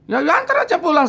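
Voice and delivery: just take it home, fed up; exasperated. Retold or imitated. Narrator snaps at friends to take the spirit home, high exasperated.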